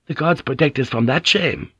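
put-on a young woman praying; fearful woman voice.

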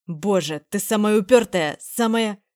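put-on man shouts at a stubborn girl; shouting. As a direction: cry it out in frustration. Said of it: "закричал Ник".

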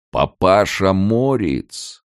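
slow, high, ringing call of a name; the gatekeeper calls out slowly and loud; resonant call. A narrator's reading. Gatekeeper calls to Morets hiding behind bushes, slow ringing call. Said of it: "раздался вдруг мягкий, но очень звучный голос".

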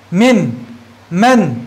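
من as one joined syllable, not spelt out; blended as one word. Shown as a demonstration. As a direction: say each من whole and separately. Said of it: "لا نلفظ اسم الحرف الهجائي". (نطق من كلمةً واحدة مركبة)

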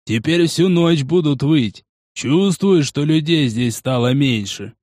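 slow, lightly voiced grumbler; grumbling Porokh. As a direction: draw the words out in mild displeasure.

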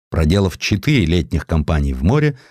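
plain reading voice

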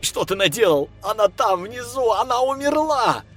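high, loud anguished shout. A narrator's reading. Lev yells at the voice in his head, high loud shout. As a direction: yell it in horror. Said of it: "прокричал парень".

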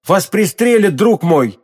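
high, urgent warning cry; alarmed warning. Acted. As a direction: plead with him to stop, alarmed. Warning friend of being shot. (встревоженное предостережение)

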